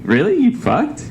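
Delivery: high, surprised bro voice. Pretend. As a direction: ask like an amazed buddy.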